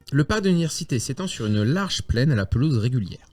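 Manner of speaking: measured game master's scene setting; Spielleitung beschreibt die Szene. A narrator's reading. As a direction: narrate the university grounds to the players.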